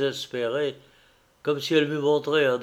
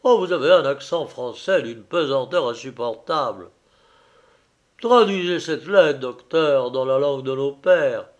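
indignant protest; 5 dB louder than usual. Acted. Stello protests at the doctor's accent.

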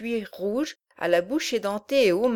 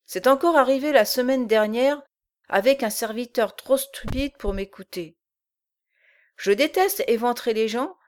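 lightly voiced menacing giant; a brute laying down the law; gruff giant. Bolbec threatens the servants.

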